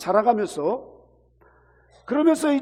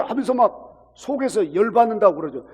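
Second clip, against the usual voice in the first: ordinary talk, nothing marked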